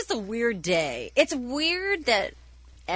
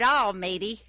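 English accent; 3 semitones lower than usual. Shown as a demonstration. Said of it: "And that's my accent".

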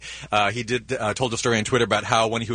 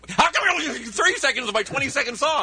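whiny complaint; 13 semitones higher than usual. Retold or imitated. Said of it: "and I'd be like".

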